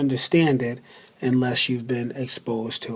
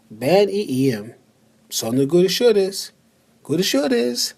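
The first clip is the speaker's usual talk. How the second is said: lightly voicing two speakers; reading a dialogue; 2 semitones higher than usual. Teacher reading a sample conversation to learners. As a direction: read both parts of the Turkish exchange. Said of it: "I'm just going to read the conversation".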